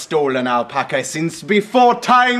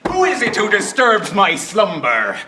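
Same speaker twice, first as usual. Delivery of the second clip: raised rasping ancient voice; dusty mummy rasp; 8 semitones higher, 5 dB louder than usual. Acted. Woken janitor creature speaks.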